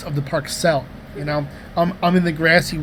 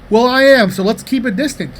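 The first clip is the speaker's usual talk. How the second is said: louder, higher retold pushback; firm retort; 6 semitones higher, 5 dB louder than usual. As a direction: firmly insist on keeping your distance. Retold standoff over keeping distance.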